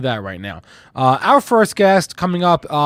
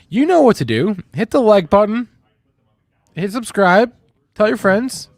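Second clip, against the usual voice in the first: higher and louder, energetic; hyped call to action; 6 semitones higher, 5 dB louder than usual. Acted. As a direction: pump up the viewers. Youtuber outro call to action.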